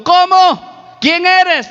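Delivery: high, startled questions called up; incredulous climber. Retold or imitated. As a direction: ask upward in disbelief.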